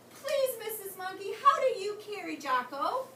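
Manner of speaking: pleading kangaroo voice; Katie voice. Acted. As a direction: ask sweetly and eagerly. Katie asks Mrs Monkey.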